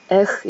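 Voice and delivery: "에흐" as the French letter R; name the letter R in French, "에흐"; "에흐" ending in a French throat R. Shown as a demonstration. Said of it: "이렇게 발음하더라고요".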